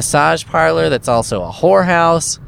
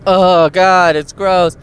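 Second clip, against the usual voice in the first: higher, louder, grossed-out groan at the mess; mock the wife's disgust, pitched up and loud; 4 semitones higher, 5 dB louder, slower than usual. Wife catching him watching porno, disgusted and loud. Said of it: "And she's like".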